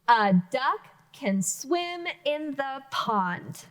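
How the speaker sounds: very slow reading ending on a fall; plain statement. Shown as a demonstration. Teacher modeling a statement with a period. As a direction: read it as a simple statement. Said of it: "That was another statement".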